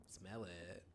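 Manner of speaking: soft unvoiced whisper. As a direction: breathe it out creepily. Sniffing a smelly room.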